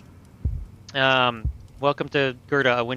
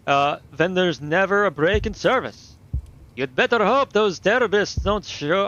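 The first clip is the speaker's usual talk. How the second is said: a hint of a worried station hand, a bit louder; lightly voiced railway worker; 3 semitones higher, 3 dB louder than usual. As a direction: play the station worker fretting about the trains. In-character game dialogue.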